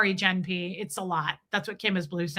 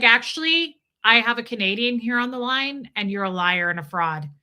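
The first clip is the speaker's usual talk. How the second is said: pretend indignant correction. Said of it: "I'm gonna be like".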